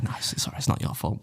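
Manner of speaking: hushed, almost whispered retelling; very soft, deflated backing-down; sheepish reassurance. Retold or imitated. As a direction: drop right down and let her off gently. Backing down to apologetic hostess.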